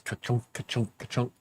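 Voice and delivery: soft mock clunking noise; imitating the dish. The cat banging his food dish, softly imitated clunk. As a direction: tap out the bowl's clunk with your mouth. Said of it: "puts his paw on it, and goes".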